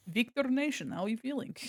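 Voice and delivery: put-on D&D character accent. Streamer quoting her D&D character's line, put-on character accent. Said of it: "D and D character with that accent".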